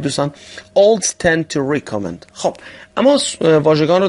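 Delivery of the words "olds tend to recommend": very slow, each word spaced; slow repeat-after-me. Shown as a demonstration. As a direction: say it slowly for the class to echo. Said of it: "تکرار بفرمایید". (تکرار آهسته برای شاگردان)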